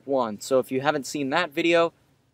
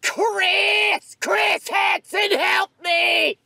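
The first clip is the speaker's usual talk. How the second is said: high panicked shout; much slower than usual. Acted. Shouting for help.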